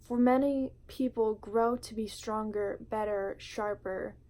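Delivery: measured, heartfelt poem reading with weighted pauses; spoken word poetry. Acted. Vlogger reading her poem Home to viewers, spoken word delivery. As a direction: read it like a confession, line by line.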